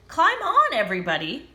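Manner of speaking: high, loud call to everyone; excited shout. Acted. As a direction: call out to the animals. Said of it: "shouted Duck".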